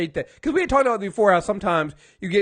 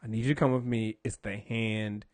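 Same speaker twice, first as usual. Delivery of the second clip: Matt urging her; 11 semitones lower, 9 dB quieter than usual. Retold or imitated. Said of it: "He's like".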